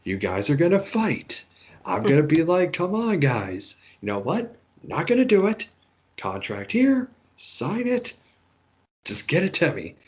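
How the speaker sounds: lightly voiced exasperated boss, pitch jumping high; a hint of a tired boss waving the contract at them; mock weary boss. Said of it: "Scott D'Amore being smart enough to say".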